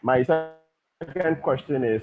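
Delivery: choppy call audio breaking up; wobbling voice. Real, not acted. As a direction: voice wobbling over a bad line. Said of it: "your voice is wobbling".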